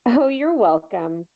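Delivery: slow, dry sarcastic thanks. Acted. Teasing Haley after she blames her, sarcastic. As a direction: lay the sarcasm on lightly. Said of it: "She says sarcastically".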